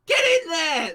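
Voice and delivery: high, exasperated yell; loud, urgent cursing and commanding; shouting out the window. Acted. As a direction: shout frantic orders from a window. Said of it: "shouting out the window".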